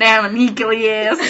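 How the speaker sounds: drawn-out southern accent, laughing; slow southern slip through a laugh. Real, not acted. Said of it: "Stop being a southern accent".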